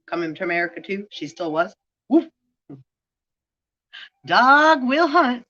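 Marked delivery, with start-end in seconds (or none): 2.1-2.3 short sharp woof like a dog; dog bark. Pretend. Barking after a remark. 4.3-5.5 high, loud, slow declaration; loud proclamation. Real, not acted. Proclaiming after the barks.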